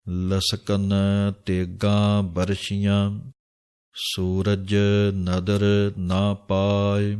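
slow, drawn-out chanting of the verse; scripture recitation. Acted. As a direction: intone each word slowly like a reading of Gurbani. (ਹੌਲੀ ਹੌਲੀ ਬਾਣੀ ਦਾ ਪਾਠ)

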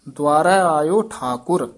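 full rest on Thakur; pause placement. Shown as a demonstration. Teacher showing the main pause, stopping after Thakur. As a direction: join the phrase, stop after Thakur. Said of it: "ਇੱਥੇ ਵਿਸਰਾਮ ਹੈ".

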